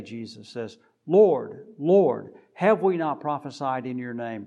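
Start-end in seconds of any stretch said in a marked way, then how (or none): 1.1-2.3 loud pleading cry; Lord, Lord, cried out loud. Retold or imitated. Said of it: "some would cry out". 2.5-4.5 crying out. Retold or imitated. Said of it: "some would cry out".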